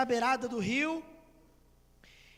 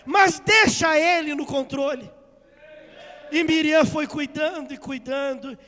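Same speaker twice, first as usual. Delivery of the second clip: loud, raised-pitch exhortation; impassioned preaching; 5 semitones higher, 10 dB louder than usual. Acted. Preacher urging church to leave God in control, impassioned exhortation. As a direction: drive it home to the congregation.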